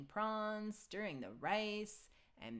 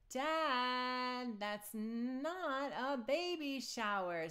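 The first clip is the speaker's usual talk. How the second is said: laughing; 7 semitones higher, 4 dB louder, much slower than usual. A narrator's reading. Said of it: "laughing with Bingo".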